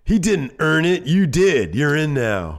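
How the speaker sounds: loud, high, smug Corbin voice; mock Baron Corbin, brash and smug. Mocking Baron Corbin announcing.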